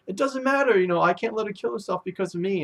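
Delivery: high, insistent plea; urgent insistence. Retold or imitated. Sai answers his grandfather, urgent and high. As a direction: insist hotly that she must live. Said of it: "He's like".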